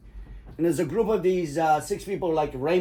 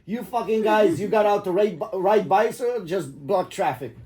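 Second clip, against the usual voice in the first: retold yell; 3 semitones higher, slower than usual. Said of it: "I said".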